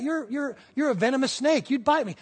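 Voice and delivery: put-on a young boy backing away from a snake; scared boy. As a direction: afraid Indian boy pleading with snake.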